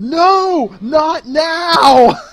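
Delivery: very high, very loud, shrill, drawn-out yell. Describing a game scene, the speaker acts out a character: imitating Aerosol yelling. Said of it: "recognizable voice of of Aerosol yell".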